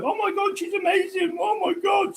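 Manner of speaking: very high, breathless gushing amazement; imitating the shop lady overwhelmed with awe; awed shop lady. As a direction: gasp it out in wonder. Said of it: "She's like".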